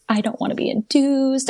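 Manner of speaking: high, mildly distraught plea; retold distraught protest. Patient told she is barely dilated, retold as mildly distraught. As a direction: imitate being upset, pitch lifted. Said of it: "like, distraught".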